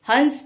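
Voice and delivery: हंस as hans, the bird, full n; bindu sound. Shown as a demonstration. Teacher names the bird, हंस with a full n. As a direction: say हंस with a clear n before s. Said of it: "हंस बिंदी लगी हुई है".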